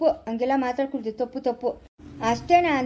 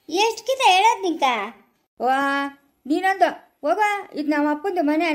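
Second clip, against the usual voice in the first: scolding. Acted. Scolding over entering room.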